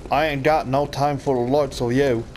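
put-on Cockney at an everyday pitch; Cockney British accent. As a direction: do a playful Cockney brush-off. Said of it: "My Cockney British accent is phenomenal".

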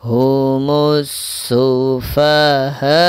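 slow chant, very long aa before a short উ; unhurried tajweed demonstration; four-alif madd recitation. Shown as a demonstration. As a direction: stretch the end of সুফাহা, then clip উ. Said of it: "এখন চার আলিফ টান".

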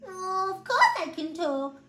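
high, slow teddy voice; squeaky storybook teddy; little voice. A narrator's reading. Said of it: "the voice replied".

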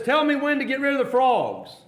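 insistent appeal. Acted. Preacher as Moses asking Pharaoh about the frogs, insistent.

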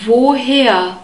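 Woher with a long, held O; "voh-HAIR", long first vowel in Woher. Shown as a demonstration. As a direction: draw out the O in Woher, opening on a V. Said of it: "a long O sound".

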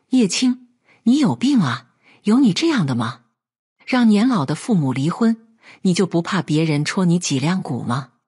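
ordinary delivery

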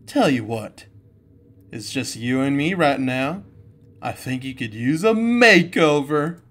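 put-on slow, vain wolf diva voice, lightly accented; Roxanne Wolf impression. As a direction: purr it like a self-adoring diva. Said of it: "I'll try to do my best Roxanne Wolf impression".

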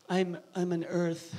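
slow, mocking ditzy girl. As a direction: sneer at a picky girl. Mocking a girl's voice.

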